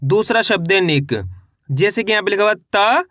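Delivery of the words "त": "त" held alone with a rise; letter by letter. Shown as a demonstration. Teacher builds the first half, drawn-out rising "त". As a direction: sound out "त" before joining it. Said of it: "इनको दो दो करके पढ़ लेना है".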